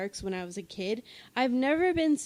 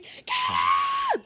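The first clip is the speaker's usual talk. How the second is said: high, loud shriek of panic; panicked shout; 5 dB louder than usual. Retold or imitated. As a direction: yell it at the fallen character. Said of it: "I'm screaming".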